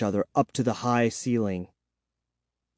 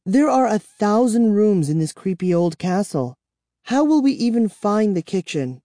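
despairing; 9 semitones higher than usual. Acted. Kara despairing complaint.

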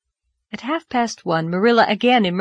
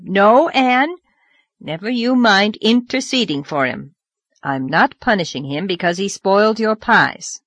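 loud, firm orders; stern command; 4 dB louder than usual. Acted. Marilla sending Davy upstairs, loud stern command. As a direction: send the child upstairs, no arguing.

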